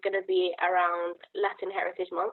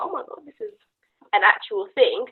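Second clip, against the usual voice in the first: mild retold surprise; 3 semitones higher, 4 dB louder than usual. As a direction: retell it as a small, high-pitched amazed reaction. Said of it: "and I was like".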